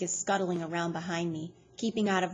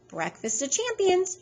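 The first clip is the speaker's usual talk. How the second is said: mock toast; 12 semitones higher, 5 dB louder than usual. A narrator's reading. Loretta toasting with beer.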